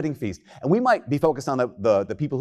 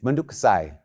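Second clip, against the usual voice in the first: attempted Japanese pronunciation; Japanese accent; 2 semitones lower than usual. Shown as a demonstration. Preacher quoting a Japanese term, light Japanese accent. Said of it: "That's my best Japanese impression".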